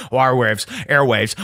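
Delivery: fading echo repeat; mock echo. Host mimicking radio echo, fading repeats.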